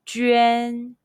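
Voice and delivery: "Ji, yuan, juan" all held on a high level tone; "juan" on a high, flat first tone. Shown as a demonstration. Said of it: "high-pitched first tone all together".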